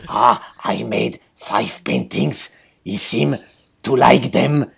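slow, lightly voiced mock Giger; a dry, slow aside as the painter; Giger imitation. Podcaster mimics the painter in the documentary, slow and light. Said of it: "Belle imitation de Giger".

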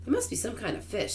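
lightly voiced character, high and soft; old grasshopper. A narrator's reading. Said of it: "said the old green grasshopper".

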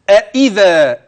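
أإذا, both hamzas sounded clearly and loudly; recitation demo. Shown as a demonstration. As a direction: hit each hamza in أإذا distinctly. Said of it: "انتبه بقى للهمزتين". (أإذا بتحقيق الهمزتين)

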